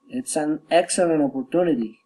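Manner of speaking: exclamation descending through "opportunity"; exclaimed with a falling end on "opportunity". Shown as a demonstration. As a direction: let "opportunity" fall away to finish. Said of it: "falling intonation".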